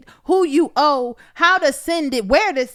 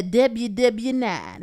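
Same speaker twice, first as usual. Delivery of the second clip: slow, playfully doubled W in W W NINE; joking; 3 semitones lower, much slower than usual. Shown as a demonstration. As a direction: stretch out W W NINE as a joke. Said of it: "Let me not do that".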